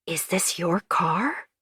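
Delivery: slow breathless whisper of shock. Acted. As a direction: hush it, horrified. June sees the scratched word.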